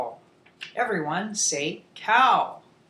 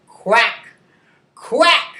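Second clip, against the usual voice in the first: duck quack; 3 semitones higher, 7 dB louder than usual. Shown as a demonstration. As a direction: imitate a duck for the class. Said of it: "talk about the sounds".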